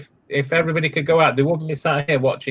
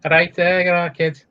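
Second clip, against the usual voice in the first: put-on Liverpool accent; 3 semitones higher than usual. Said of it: "a bit Liverpoolish".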